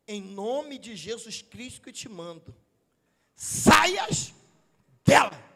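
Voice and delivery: slow, low build to a loud burst; exorcism command. Retold or imitated. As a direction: command the spirit out, exploding on the last words. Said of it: "o texto vai dizer assim".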